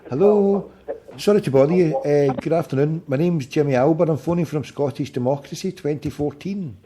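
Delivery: talking without dentures; gummy speech, teeth out. Real, not acted. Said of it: "I'll go and put my teeth in".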